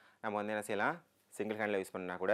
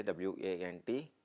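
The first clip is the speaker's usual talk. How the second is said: slow, letter by letter; slow classroom spelling of W A N T; spelled out slowly; much slower than usual. Shown as a demonstration. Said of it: "வாண்ட்டுக்கு என்னது".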